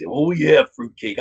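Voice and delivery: lightly voiced grinning wrestler; a hint of wrestler growl like Randy Savage; Sid impression. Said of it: "he always had that smile going on".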